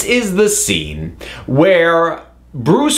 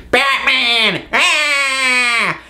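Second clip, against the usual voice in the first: hammed-up high "Batman! Ah!" yelp; dorky cry; 5 semitones higher, much slower than usual. Imitating the dorky extra pointing up, goofy yelp. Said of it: "unbelievable, dorky".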